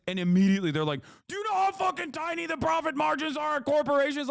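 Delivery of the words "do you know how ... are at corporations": high, scoffing corporate-defender voice; mock corporate apologist. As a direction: sneer it like a smug exec. Mocking corporate defenders' reply.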